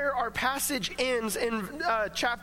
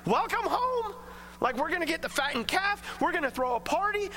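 joyful welcome; 5 semitones higher than usual. Retold or imitated. God welcoming the returning sinner.

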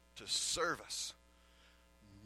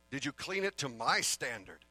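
stern parent demand. Retold or imitated. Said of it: "that's how I say it".

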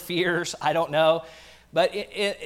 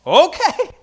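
meek okay; 11 semitones higher, 9 dB louder than usual. Pretend. Peter answering the refusal.

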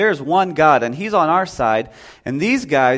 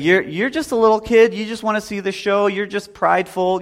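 higher, dismissive big-brother scoffing; scornful accusation; 5 semitones higher than usual. Retold or imitated. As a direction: brush him off as a little kid. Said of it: "that's what Eliab is accusing David of doing".

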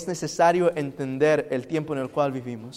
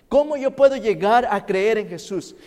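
higher, louder preacher question; raised question; 7 semitones higher, 7 dB louder than usual. Acted. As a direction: lift the question to the crowd.

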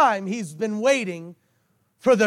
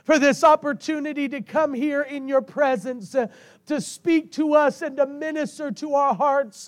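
fervent prayer; 2 semitones higher than usual. Real, not acted. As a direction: pray aloud over the congregation. Leads congregational prayer.

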